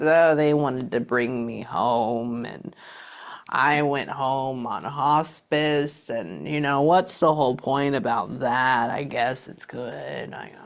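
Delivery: unhurried spirit voice trailing off; methodical and slow. Retold or imitated. Medium relays the mother's hospice memory, slow and fading. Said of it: "She talks very, um, methodical and slow".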